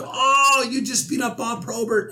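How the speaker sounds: high, goofy teasing voice; high mocking teammate voice; teammates' mock voice. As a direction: razz him like a giddy teammate. Teammates teasing in locker room.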